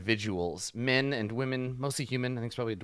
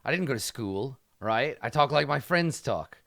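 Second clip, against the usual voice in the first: a thug taking offence at a grammar correction, louder on classist; offended thug; 2 semitones higher, 5 dB louder than usual. Acted. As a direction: get prickly and defensive, a hint of street thug. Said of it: "he looks over at you and he says".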